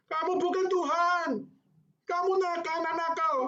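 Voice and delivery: very high, loud scolding teacher; a teacher scolding a naughty child, high and loud. Retold or imitated. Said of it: "Dia marah dengan lembut".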